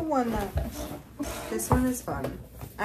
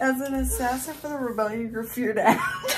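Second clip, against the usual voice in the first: laughing while reading; 4 semitones higher, 3 dB louder than usual. Real, not acted. Rereading blurb laughing.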